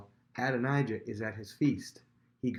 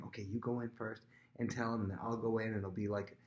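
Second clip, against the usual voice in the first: hushed plotting; 5 dB quieter than usual. Retold or imitated. Bathsheba and Nathan plotting outside.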